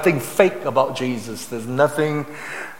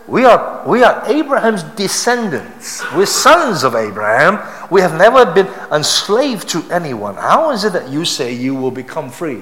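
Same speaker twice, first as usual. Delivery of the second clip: loud, high, acted indignation; mock-offended declaration of ancestry; indignant protest; 3 semitones higher, 5 dB louder than usual. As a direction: object proudly, pushing the voice up and out. Acting indignant answer to Jesus.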